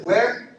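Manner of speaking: WHERE called high and loud, rising; prompting call. Real, not acted. Preacher cueing congregation to finish the verse, rising prompt. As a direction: ring out WHERE as a question to be answered.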